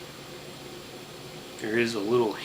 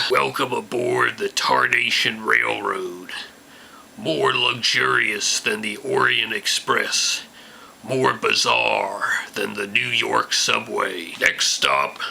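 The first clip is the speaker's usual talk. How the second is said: put-on Tarnation Bob old prospector; 4 dB louder than usual. Holds hick conductor character voice.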